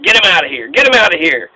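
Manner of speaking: mock order to throw a heckler out; Trump. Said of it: "he would have gone out on a stretcher".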